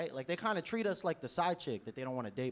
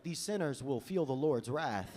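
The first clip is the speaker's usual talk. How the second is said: mock preacher; slower than usual. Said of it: "I was walking through Europe, like".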